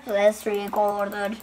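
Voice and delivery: low, slow put-on voice; low echo. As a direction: drop low and draw it out. Low echo of the first take. (kalın, yavaş yankı gibi)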